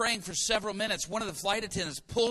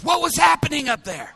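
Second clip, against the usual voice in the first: loud high demanding what happened; loud startled wife; loud alarmed question; 8 semitones higher, 12 dB louder than usual. Retold or imitated. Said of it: "Marcy says".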